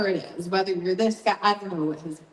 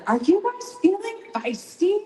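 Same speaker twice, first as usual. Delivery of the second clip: a higher, pumped-up call to the crowd; hyped crowd call; 8 semitones higher than usual. Retold or imitated. Singer calling out to the arena crowd, hyped. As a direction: rev up the whole arena.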